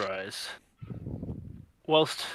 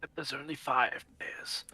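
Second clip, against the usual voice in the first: whisper; 6 dB quieter than usual. Acted. Whispered aside in the bit.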